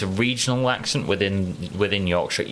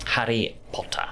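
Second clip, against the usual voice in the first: whispered; 4 semitones higher than usual. Shown as a demonstration. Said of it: "How do you pronounce Harry Potter?".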